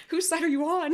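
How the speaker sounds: real laughter breaking up the words; laughing. Real, not acted. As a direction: crack up while saying it. Mock dispute breaks into laughter.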